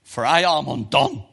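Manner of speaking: anguished cry. Acted. Isaiah crying out before God, loud and anguished. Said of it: "and he cries".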